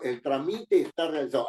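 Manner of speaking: "trámite" wrongly stressed on -mi-, as tra-MI-te; misplaced middle stress. Shown as a demonstration. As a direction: say "trámite" with no accent on the A, weight on MI. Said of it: "Si no le pongo acento en la A".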